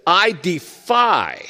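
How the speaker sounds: lightly voiced drawn-out defiance; a hint of a menacing giant; slow defiance. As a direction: stretch it out like a slow threat. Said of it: "And then he says this".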